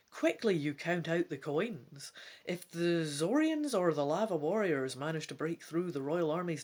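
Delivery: steady read-aloud voice; story narration. A narrator's reading. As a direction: narrate the adventure to a listener. Reading gamebook narration aloud.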